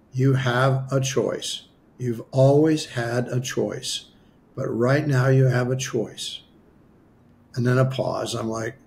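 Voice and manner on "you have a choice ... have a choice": slow, deliberate pronouncement, lightly acted; loud clear voice. Mysterious voice answering a dying man, slow clear pronouncement. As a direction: deliver it slowly, like a voice from above. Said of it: "a very loud, clear voice".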